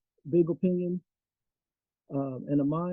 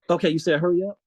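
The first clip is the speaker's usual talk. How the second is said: muffled through a covered mic; muffled phone; 5 dB louder, faster than usual. Real, not acted. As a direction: voice blocked by a thumb. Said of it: "You're, you're kinda muffled".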